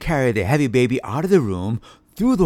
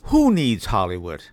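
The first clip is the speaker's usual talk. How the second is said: chapter title; 3 semitones lower than usual. A narrator's reading. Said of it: "Chapter five".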